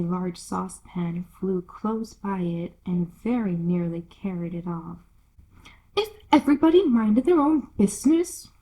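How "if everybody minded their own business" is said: hoarse growl. Acted. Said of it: "said in a hoarse growl".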